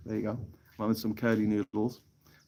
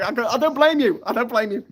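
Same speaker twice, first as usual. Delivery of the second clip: tag; 12 semitones higher, 5 dB louder than usual. Retold or imitated. Replying to complaint about noisy stream.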